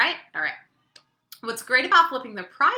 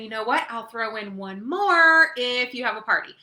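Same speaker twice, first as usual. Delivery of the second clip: friendly sales pitch; 6 dB louder than usual. Shown as a demonstration. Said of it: "you can say".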